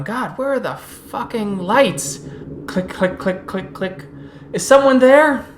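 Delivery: a guard calling out into the dark. Acted.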